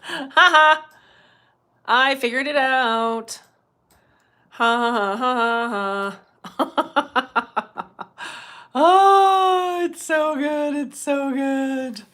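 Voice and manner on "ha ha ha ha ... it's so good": laughing through the words, slowed; real giggles spilling over the words. Real, not acted. Laughing at finding comments.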